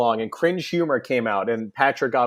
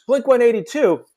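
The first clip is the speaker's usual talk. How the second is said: higher, louder Manc rock star voice; a singer; 9 semitones higher, 5 dB louder than usual. Retold or imitated. A singer spotting a band backstage, higher Manc voice. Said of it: "you do such a good fucking impersonation".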